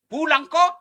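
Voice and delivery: nada tinggi merengek, lebih keras; menirukan istri menyuruh pulang. Retold or imitated. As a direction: seperti istri yang menuntut lewat telepon. Istri menelepon suami, menyuruh pulang. (istri menelepon suami, menyuruh pulang dengan nada tinggi merengek)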